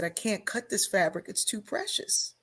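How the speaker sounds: hushed, almost whispered tearful plea; a soft, retold catch of tears. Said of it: "And I started crying".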